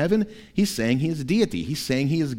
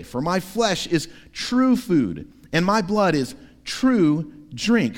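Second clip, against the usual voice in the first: pastor reading the Gospel aloud before the sermon; scripture reading. Acted.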